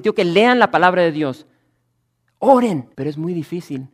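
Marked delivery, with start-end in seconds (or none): 0.0-2.9 high and loud, the easy way to say it; hammed-up pulpit order to read and pray; loud preachy command. Pastor shows how easy it is to command reading, loud preachy order. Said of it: "Es fácil para mí decir".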